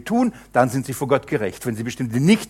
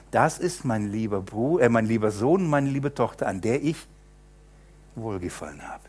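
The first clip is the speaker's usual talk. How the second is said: tender voice of God; 2 semitones lower, 5 dB quieter than usual. Acted. Voicing God speaking tenderly.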